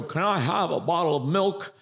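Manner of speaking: put-on high, meek childish ask; little voice. A recruit mocking his old meek voice. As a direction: ask sweetly in a tiny voice. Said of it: "you walk out and you go".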